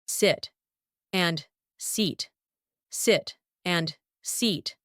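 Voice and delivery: short i in "Sit", long ee in "seat"; vowel contrast. Shown as a demonstration. Teacher contrasting two words, short "Sit" versus long "seat". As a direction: set "Sit" apart from "seat", spaced out. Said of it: "Just pronounce a little bit incorrect".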